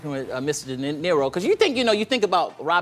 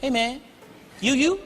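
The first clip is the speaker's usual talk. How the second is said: fans recognizing him; 7 semitones higher than usual. Retold or imitated. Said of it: "looking at me like".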